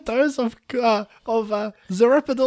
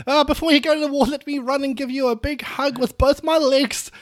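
put-on little orphan boy; 3 semitones higher than usual. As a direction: play a scrappy little boy. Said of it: "Little orphan boy".

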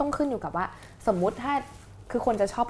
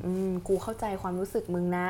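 empathetic; 4 dB quieter than usual. Shown as a demonstration. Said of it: "อันนี้พูดได้ใช่ไหม".

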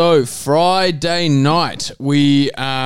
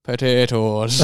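mock Irish; 3 semitones lower, much slower than usual. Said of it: "Was that Irish?".

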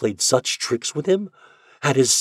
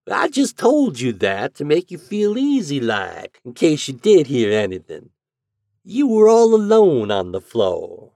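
cool; 7 semitones higher, 6 dB louder than usual. A narrator's reading. Landlady coolly correcting the lodger. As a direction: answer coolly, unmoved. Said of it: "she answered coolly".

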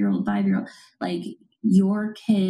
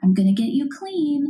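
validating tone. Shown as a demonstration. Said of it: "is not the same as saying".

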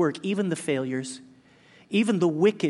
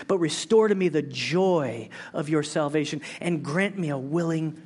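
scripture reading. Acted. Pastor reading the psalm, ending whispered. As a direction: let the verse sink to a hush. Reads verse aloud.

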